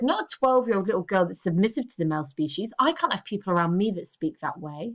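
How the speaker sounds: ordinary talk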